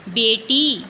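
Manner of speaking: बेटी called out loud for the class; teacher calls out बेटी; emphatic example word. Shown as a demonstration. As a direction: announce बेटी clearly and loud. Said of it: "बेटी में ये देखो".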